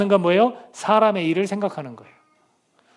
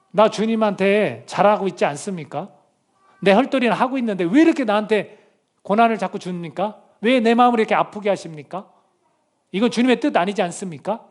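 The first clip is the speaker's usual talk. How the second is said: protesting; 2 semitones higher than usual. Acted. Believer in hardship complaining to the Lord, mock protest. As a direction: act out pleading questions with some reproach. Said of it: "이런 식으로 항변을 하죠".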